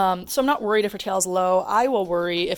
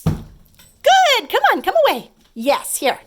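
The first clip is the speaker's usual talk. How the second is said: high calling praise; 14 semitones higher, 8 dB louder, much slower than usual. Real, not acted. High-pitched call to dog.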